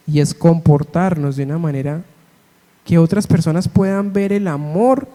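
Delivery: gentle pastor's prayer, unhurried; closing prayer. Acted.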